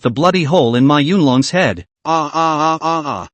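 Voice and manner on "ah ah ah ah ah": frightened cries trailing off quietly; gasping startled ah ah ah; startled screams. Acted. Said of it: "The duo was viciously startled".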